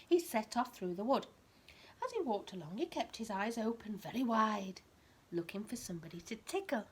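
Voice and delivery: lively bedtime story reading, rising on the key words; reading to a child. A narrator's reading. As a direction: read it like a picture book to a toddler.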